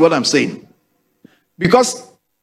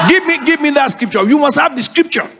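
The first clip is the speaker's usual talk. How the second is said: bold declaration; 8 semitones higher, faster than usual. Shown as a demonstration. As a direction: shout it out like you mean it. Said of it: "Let the weak say".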